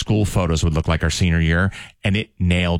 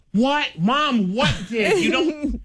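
robot voice; much slower than usual. Retold or imitated. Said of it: "imitating Alexa reply".

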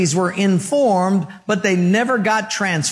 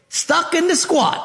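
laughing punchline; 9 semitones higher than usual. Retold or imitated. Cook's punchline, teller laughing.

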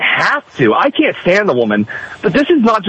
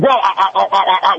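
stammering impression. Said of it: "the exact same way I said".

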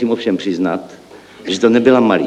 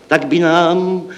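higher, drawn-out proclamation; proudly raised voice; 6 semitones higher, much slower than usual. A narrator's reading. Clerk unveils his plan, voice proudly raised. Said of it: "zvýšil jsem hrdě hlas".

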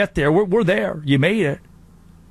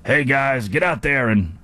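lightly voiced actor impression; a hint of a famous actor's delivery; Al Pacino. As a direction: slip loosely into a movie-star pep talk. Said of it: "I don't know why he became Al Pacino".

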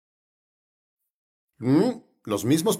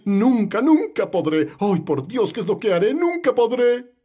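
hammed-up fretting, rising in pitch; mildly exaggerated helpless lament; mock despair; 4 semitones higher than usual. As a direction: act out someone sure they cannot cope. Acts out people who despair.

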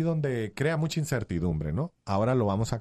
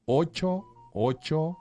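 slow, deliberate digit-by-digit dictation; nice and slowly; much slower than usual. Real, not acted. Host repeating the phone number so listeners can write it down, slowly. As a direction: leave long gaps between the number groups. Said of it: "Lo voy a repetir así despacito".

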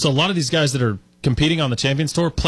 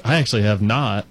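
put-on South African accent; 4 semitones lower than usual. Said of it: "in a very thick South African voice".

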